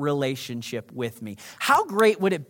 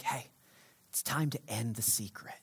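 hushed God voice; 8 semitones lower, 13 dB quieter than usual. Acted. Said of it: "God whispers warnings".

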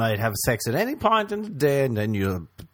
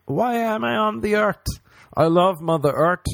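higher and louder hammed-up anguish; mock despair; 8 semitones higher, 4 dB louder than usual. Mocking people who have given up on life, hammed-up anguish. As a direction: cry out to the sky like a lost soul.

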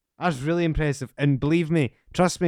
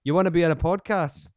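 louder, higher mock call-out; retold pitch; 6 semitones higher, 6 dB louder than usual. Podcaster retelling his first message to a guest, retold pitch. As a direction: imitate your own eager invitation. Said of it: "and I went".

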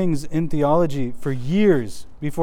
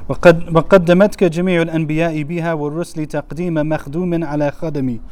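quick chanted Arabic verse; poem recitation; 2 semitones higher, much faster than usual. Acted. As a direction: rattle off the poem rhythmically.

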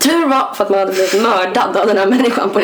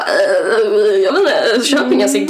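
drawn-out, wobbly, uneasy hedging; hesitant reply; slower than usual. Retold or imitated. Telling friends how she answered his cigarette question, hesitant.

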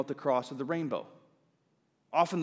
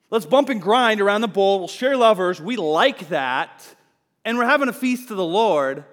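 loud, higher mock revelers; partying Israelites; 6 semitones higher, 9 dB louder than usual. Israelites reveling round the golden bull, loud mock party voice. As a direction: ham up the partygoers around the bull.

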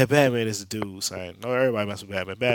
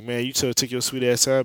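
louder, higher ribbing jab; louder teasing gripe; mock scolding; 4 semitones higher, 5 dB louder than usual. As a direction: needle him for being late. Teasing Batman on video phone.

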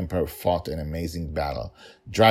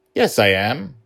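put-on defiant little girl; 7 semitones higher, 7 dB louder than usual. Child insists.

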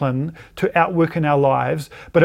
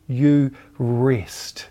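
whispered promise; 3 semitones lower than usual. Acted. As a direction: breathe the words like a gentle secret. God's promise of rest whispered.

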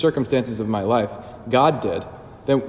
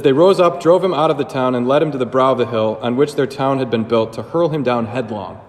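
scripture reading. Acted. Priest reads the Gospel to his listeners, proclaiming. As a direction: proclaim the passage, then settle. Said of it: "It says".

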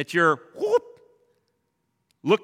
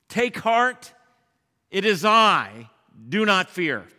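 ringing, louder declaration; proclaimed; 5 dB louder than usual. Acted. Preacher voicing Jesus to the frightened disciples, proclaiming. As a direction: proclaim it with full conviction.

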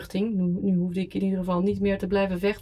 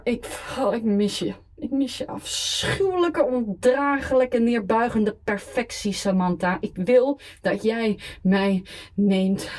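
put-on drunk. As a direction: slur it like a desperate drunk. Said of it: "dronken op te bellen".

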